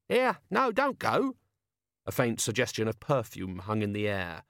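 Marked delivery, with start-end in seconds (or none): 0.1-1.4 high, urgent plea; pleading. A narrator's reading. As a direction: beg them to stay. Pleading they stay.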